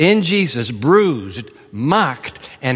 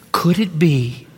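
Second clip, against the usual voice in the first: hushed whisper; 2 semitones lower, slower than usual. Real, not acted. Preacher asks the church, slow and whispered. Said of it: "hushed question to congregation".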